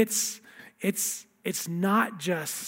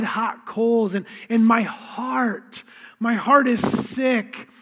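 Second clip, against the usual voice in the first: slow, louder, earnest scripture plea; psalm reading; 2 semitones higher, 3 dB louder, slower than usual. Acted. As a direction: draw out each line like a lament. Pastor reads lament psalm.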